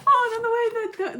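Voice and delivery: gush, voice cracking up high; high emotional cry; overcome. Real, not acted. Overcome recalling ending.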